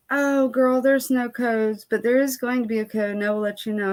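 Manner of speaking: lightly voiced fake-friendly boss; fake sweet owner. Owner brushing her off about codes, in a mock sweet voice.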